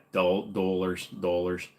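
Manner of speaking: "dollars" with a Minnesotan vowel; northern "dollars". Shown as a demonstration. Streamer showing his home-state speech, Minnesotan "dollars". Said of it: "when I say stuff like dollars".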